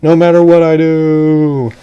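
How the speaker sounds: high, loud furious threat; angry vow. Acted. Captain swears revenge on the demon frog, loud angry shout. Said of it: "And then he got really angry".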